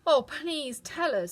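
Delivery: put-on a girl begging eagerly; eager Dorothy. A narrator's reading. Dorothy begs the witch, eager and slow. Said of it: "said Dorothy".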